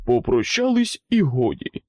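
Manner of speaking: loud, creaky command; the mayor silencing the farewells; creaky mayor's voice. A narrator's reading. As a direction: cut them off with a creaky bark. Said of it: "рипучий голос мера".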